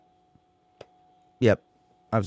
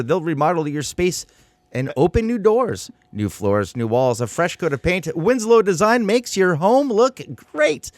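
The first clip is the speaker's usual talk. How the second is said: Dr. Seuss rhyme read. Acted. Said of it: "rhyme-heavy tone of Doctor Seuss".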